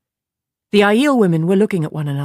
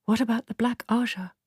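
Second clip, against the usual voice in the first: small voice; 6 semitones higher, 5 dB quieter than usual. Acted. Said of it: "a small voice asked".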